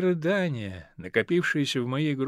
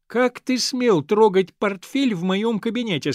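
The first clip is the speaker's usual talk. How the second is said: louder and higher, stern father scolding; father catching his son, sternly; 6 semitones higher, 6 dB louder than usual. Acted. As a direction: scold the boy hard. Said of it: "строго сказал".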